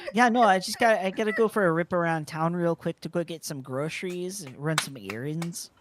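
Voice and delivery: hammed-up Canadian, "bud" and "rip around town"; a mock-Canadian teasing a friend; exaggerated Canadian accent. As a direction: push the Canadian accent on purpose. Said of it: "That's the phrase that I was messing up with".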